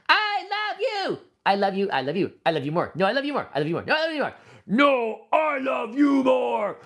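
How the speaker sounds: high sugary toy lovers bickering; lovey-dovey toy voice. Pretend. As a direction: squeal it like smitten plushies. Toys arguing who loves more.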